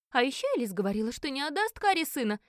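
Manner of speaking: put-on high, quick girlish tattling; голос девицы. A narrator's reading. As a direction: chime in with an accusation, high-pitched. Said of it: "добавила одна из девиц". (высоким голоском девицы-ябеды)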